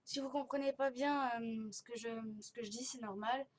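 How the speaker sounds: jaw held nearly shut by elastics; talking with braces elastics. Real, not acted. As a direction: speak through a barely open mouth. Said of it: "on m'a mis des élastiques et du coup, c'est pas facile pour moi de parler".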